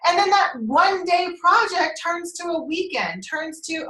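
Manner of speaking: amused, giggles breaking into the words; real laughing. Real, not acted. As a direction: laugh your way through the mishaps. Laughing as she lists project mishaps.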